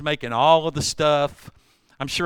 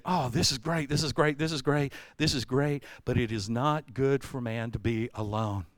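God speaking; 4 semitones lower, 6 dB quieter than usual. Retold or imitated. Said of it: "he looked and he said".

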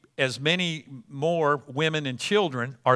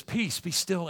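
calm command; 8 dB quieter than usual. Acted. Jesus stilling the storm, softly and calmly. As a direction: hush the storm gently.

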